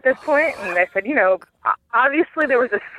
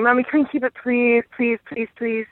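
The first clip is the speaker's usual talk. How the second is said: put-on higher, pleading little kid voice; begging child; 4 semitones higher than usual. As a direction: plead like an eager little boy. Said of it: "and then starts going".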